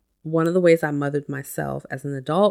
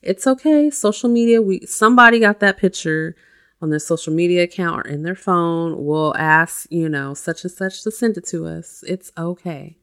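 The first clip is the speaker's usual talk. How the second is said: reassuring perfect mom; 4 dB louder than usual. Shown as a demonstration. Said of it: "How would the perfect mom talk to you?".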